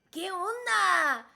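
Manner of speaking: loud, slow Mexican greeting; drawn-out Mexican lilt; Mexican accent. Acted. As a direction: stretch it out in a playful Mexican accent. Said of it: "Cuando hablo así, como los mexicanos".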